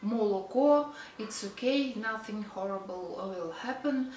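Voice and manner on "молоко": молоко as "mo-lo-ko" with every o kept; read as written. Shown as a demonstration. Teacher allowing spelling reading, молоко with full o's. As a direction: sound each o in молоко. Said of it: "as you see".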